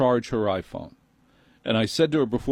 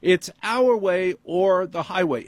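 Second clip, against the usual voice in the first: much higher, smug manager lecture; prissy manager voice; 8 semitones higher, slower than usual. Retold or imitated. Apple manager scolding the customer, high and smug. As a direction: lecture him from above, higher. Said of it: "manager repeats the line".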